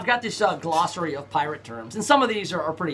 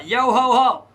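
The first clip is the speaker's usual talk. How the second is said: pirate voice; 6 semitones higher, 7 dB louder, slower than usual. Pretend. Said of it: "talk like a pirate".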